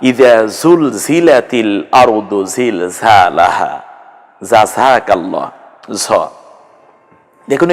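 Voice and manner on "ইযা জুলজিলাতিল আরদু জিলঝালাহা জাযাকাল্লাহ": জুলজিলাতিল recited slowly, zay sounds clear; slow careful Quranic recitation. Shown as a demonstration. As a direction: recite each word slowly.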